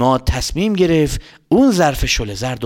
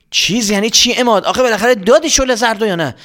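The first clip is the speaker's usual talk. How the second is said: mother; 7 semitones higher than usual. Acted. Voicing mother.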